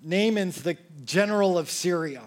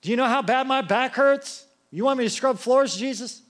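mock whining; 6 semitones higher, 3 dB louder than usual. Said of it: "complaining to Jesus".

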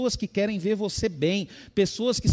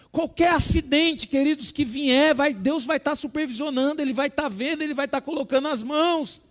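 full-force preaching; 3 semitones higher than usual. Acted. Pastor proclaims God's sovereign purpose, full-force preaching. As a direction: preach it out over the congregation.

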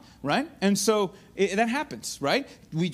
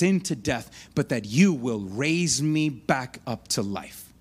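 confident prayer; 7 semitones lower than usual. Retold or imitated. Jesus praying to his Father before the cross, confident and low. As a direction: pray it low with steady, deliberate confidence. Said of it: "He is confident".

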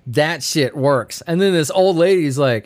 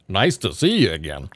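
mock greeting; 9 semitones lower than usual. Greeting the silly name.

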